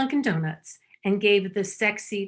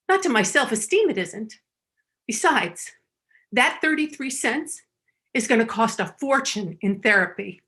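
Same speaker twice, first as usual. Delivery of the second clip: indignant retort. Retold or imitated. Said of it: "I said".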